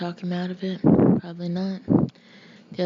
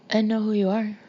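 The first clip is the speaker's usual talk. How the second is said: louder, spoken out loud; said aloud; 3 semitones higher, 6 dB louder than usual. Acted. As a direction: say it out loud, firmly, to him. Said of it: "She said it aloud".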